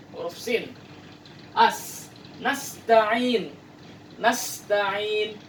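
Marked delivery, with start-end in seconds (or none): 1.6-5.4 "nasta'in" with a crisp s, teeth together; sharp clean s; Arabic sin pronunciation. Shown as a demonstration. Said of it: "Harus jelas huruf sin".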